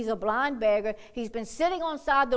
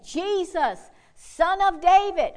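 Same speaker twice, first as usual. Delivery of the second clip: mild mock shout; 5 semitones higher, 4 dB louder, slower than usual. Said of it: "he began to shout, saying".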